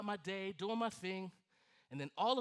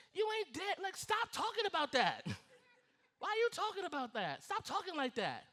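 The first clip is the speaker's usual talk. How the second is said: mock exasperation; 8 semitones higher than usual. Retort to grandma about her funeral.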